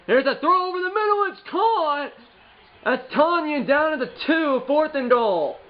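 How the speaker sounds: high announcer call; play-by-play call. Acted. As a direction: call the catch like TV. Calling his own pass.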